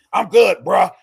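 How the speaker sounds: casual bro brush-off, all bravado. Retold or imitated. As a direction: play the tough vet who insists he's fine. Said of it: "'Cause vets lie so much".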